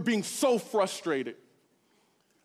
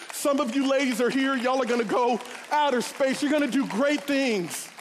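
rousing encouragement. Retold or imitated. Encouraging kids from bus top.

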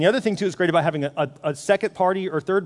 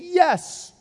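high-pitched mock eagerness to oblige; put-on people-pleaser voice; over-willing yes; 7 semitones higher, slower than usual. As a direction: agree too gladly in a raised voice. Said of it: "I still find myself saying".

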